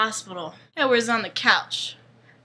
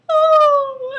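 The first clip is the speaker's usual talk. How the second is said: mock alarmed "oh"; 9 dB louder than usual. Frightened men react to the growl.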